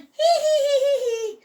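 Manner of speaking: high squeaky piglet laughter; piglet giggles. Acted. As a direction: giggle like a pile of little piglets. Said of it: "all the piglets went".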